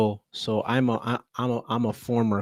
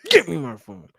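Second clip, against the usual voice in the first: firm demand; 11 semitones higher, 6 dB louder than usual. Retold or imitated. Demanding phone from student.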